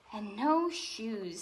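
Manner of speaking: slow, sighed-out little lament; a touch of storybook sadness, drawn out; sighing. Acted. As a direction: let it sink with a sigh. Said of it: "sighed Winter".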